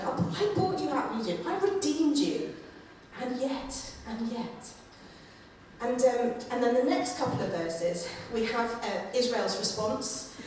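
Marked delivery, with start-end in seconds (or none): 0.0-4.7 reminding, hurt. Retold or imitated. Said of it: "kind of reminding Israel".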